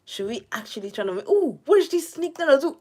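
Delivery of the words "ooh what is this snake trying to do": high startled squeal at the snake; surprised. Real, not acted. Gamer startled by a snake in the game, high alarmed yelp.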